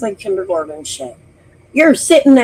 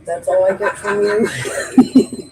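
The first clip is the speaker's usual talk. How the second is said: laughing; slower than usual. Real, not acted. Teasing reply, laughing.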